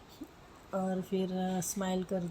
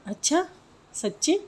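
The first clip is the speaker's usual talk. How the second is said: mock surprise; 7 semitones higher, 6 dB louder than usual. Surprised reply.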